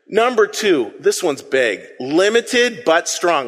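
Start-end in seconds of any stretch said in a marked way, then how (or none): 2.0-3.5 slow, measured phrase; slow and deliberate. Shown as a demonstration. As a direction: say each word slowly. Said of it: "Let's say those three words".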